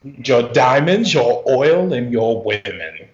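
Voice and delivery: lightly voiced colonial conqueror; a hint of imperial demand; mock colonizer. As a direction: list the plunder with mock pomp. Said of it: "sounds like you're about to colonize something".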